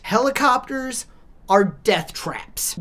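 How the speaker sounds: slow whispered "are death traps". Real, not acted. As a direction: drop to a slow ominous whisper. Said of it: "whispered aside".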